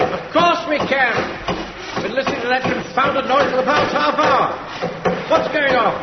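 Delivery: loud impatient call upward; shouting back. Acted.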